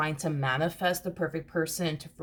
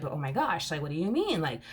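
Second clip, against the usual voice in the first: baffled partner; 2 semitones higher than usual. Retold or imitated. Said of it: "this feminine energy is so confused".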